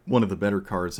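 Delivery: losing voice, strained and hoarse. Real, not acted. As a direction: rasp it out with a tired voice. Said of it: "I'm losing my voice".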